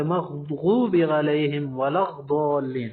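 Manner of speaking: مغضوب slowly recited with the ض sound dropped; mistaken recitation demo. Shown as a demonstration. The teacher models a mistaken recitation for students. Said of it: "ایسا بھی نہیں ہے".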